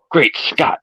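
Doc Brown exclamation. Acted. Doc's catchphrase in story.

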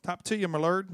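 put-on joking touch of an Irish accent. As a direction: slip playfully into mock Irish. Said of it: "Irish accent coming out".

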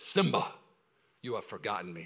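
quietly hint at the lion king father; soft half-try at a regal lion father; Mufasa line. Retold or imitated. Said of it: "comes to Simba and says".

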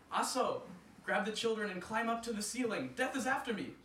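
shouting. Acted. Anansi running home to wife, shouting. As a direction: call out to her in a panic. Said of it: "Anansi shouted out to his wife".

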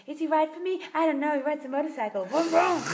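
imitated girl-band spoken interlude; girl band talking. Quoting the song's spoken bit to friends, girl-band talking. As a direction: talk it like a girl group's intro. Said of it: "they do that talking".

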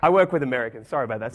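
usual speaking voice

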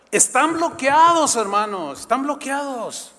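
high, loud, slow "bloqueados"; preaching at full force. Real, not acted. Preacher warning the congregation they are blocked, forceful. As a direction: drive it home to the church. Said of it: "preaching emphasis".

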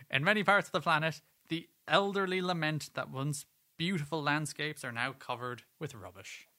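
lightly voiced pope, fading at the end; a hint of a pope, starting emphatic; Popey voice. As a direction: read it out as a mild papal proclamation. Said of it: "put on my best Popey voice".

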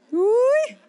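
loud, rising high "ui"; high-pitched acted yelp; excited squeal. Wife reacting to Jesus at her home, excited squeal.

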